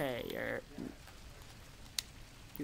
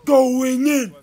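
big, raised-voice "going in"; loud announcement; 4 semitones higher, 9 dB louder than usual. Pretend. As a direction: belt it out, higher and louder. Repeats phrase at changing volume.

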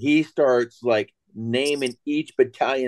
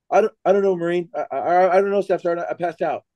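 stammering excuse, a little higher; flustered Marine; 4 semitones higher than usual. Retold or imitated. Fainted Marine answering his staff sergeant, mildly flustered imitation. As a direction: lightly play a dazed recruit making excuses.

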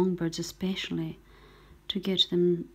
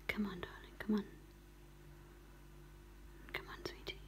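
gentle cooing whisper; 2 semitones lower, 8 dB quieter than usual. Real, not acted. Rescuer coaxes a goldcrest to take glucose, hushed cooing. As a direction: coo to the bird under your breath. Coaxing bird to eat mealworm.

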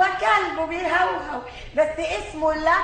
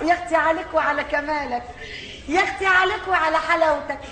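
cooing. Acted. Cooing over the animal.

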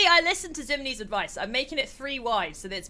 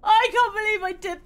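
mock despair; 10 semitones higher, 5 dB louder than usual. Mock despair over the lift.

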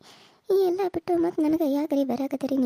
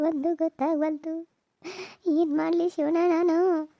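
slow, drawn-out despairing lament; 3 semitones higher, slower than usual. Acted. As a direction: grieve aloud slowly, lost and helpless. Mother laments family turmoil. (ನಿಧಾನವಾದ ದುಃಖದ ಗೋಳಾಟ)

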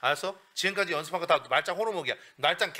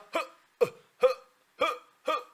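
high huffed demo; 7 semitones higher, faster than usual. Shown as a demonstration. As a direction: breathe out "흐" in the high spot. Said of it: "그 위치 기억해". (높은 위치에서 내는 "흐")

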